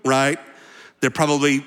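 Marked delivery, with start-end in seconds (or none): 0.0-0.4 loud, punchy mock triumph; hammed-up gloating; gloating disciples. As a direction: cheer like smug friends high-fiving. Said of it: "the disciples were like".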